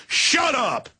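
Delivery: dismissive shout. Retold or imitated. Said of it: "it's like".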